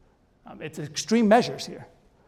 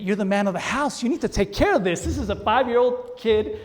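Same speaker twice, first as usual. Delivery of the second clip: insistent inner voice; 5 semitones higher, 5 dB louder than usual. Retold or imitated. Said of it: "another voice that was saying".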